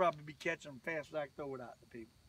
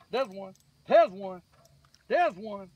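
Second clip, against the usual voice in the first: louder, slower, calling out each word; excited calling out; 12 dB louder, slower than usual. Real, not acted. Angler calling out to viewers as a fish hits, excited. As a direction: call out the fish as it bites.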